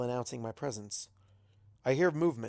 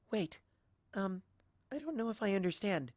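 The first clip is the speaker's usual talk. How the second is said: soft, higher, hesitant question; timid soft voice; 7 semitones higher, 6 dB quieter than usual. Acted. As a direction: ask shyly, barely daring. Timid Fluttershy asks.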